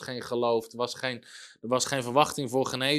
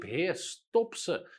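mild, drawn-out mock cry; calling out; 3 semitones higher, much slower than usual. Preacher repeats the evangelist's prayer, mildly calling out. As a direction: imitate a bold call to God, slowly, at ordinary volume. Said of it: "Maar hij riep".

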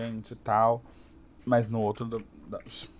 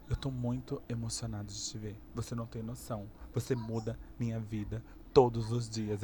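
hushed fan; 2 semitones lower, 8 dB quieter than usual. Retold or imitated. Fan's emotional words retold.

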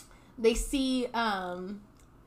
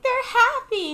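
put-on high childlike chirp; little Mumble; 13 semitones higher, 9 dB louder than usual. Baby penguin Mumble answering his dad. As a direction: chirp it like a tiny chick. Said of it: "Mumble's like".

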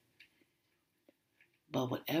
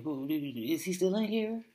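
angry mother; 5 semitones higher, 8 dB louder than usual. Retold or imitated. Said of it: "when my mother used to get angry".

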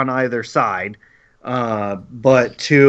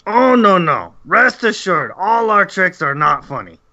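goblin voice; 5 semitones higher than usual. Acted. Goblin reassures drow.

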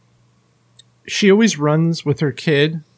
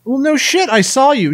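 retold anger; 8 semitones higher than usual. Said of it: "I got so mad".

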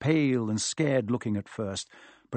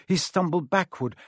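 ordinary delivery

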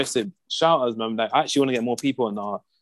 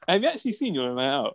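laughing; 4 dB quieter, faster than usual. Real, not acted. Teasing friend about nights out.

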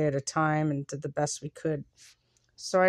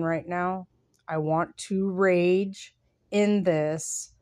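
reading own piece. Acted. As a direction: read it like a confession, letting phrases fall away. Reads her own written piece.

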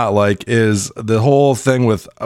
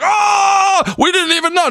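mock surprise. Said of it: "it's like".

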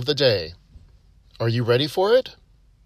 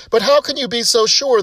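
higher, indignant disbelief; protesting; 8 semitones higher than usual. Acted. Duck owner protests to the vet, higher and indignant. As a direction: push back on the vet, incredulous. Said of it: "the woman protests".

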